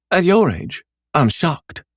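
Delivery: high mocking scoff. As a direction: scoff at the idea. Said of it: "she scoffed".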